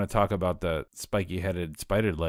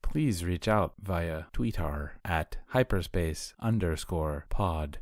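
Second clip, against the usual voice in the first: slow, even android voice; computer voice; slower than usual. Pretend. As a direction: read it like a pleasant robot. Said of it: "That's a good computer voice".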